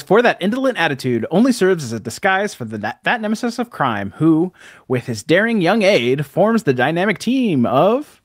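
lightly dramatic narrator read; hint of announcer. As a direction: read it like an old radio narrator. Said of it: "And it says".

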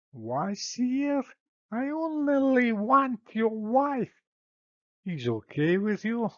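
sweetly cheeky Spanish suitor; Spanish accent. Acted. Paris voiced high.

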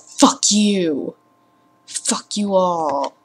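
a lightly voiced creepy ghoul, slow; hint of a zombie rising, dragging it out. Rising from the grave at viewers, mild creepy voice. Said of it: "That was a creepy voice!".

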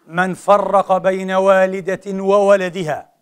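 very slow, each word laid down; solemn slow hadith quote; slow weighty recitation. Shown as a demonstration. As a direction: recite it slowly so every word lands.

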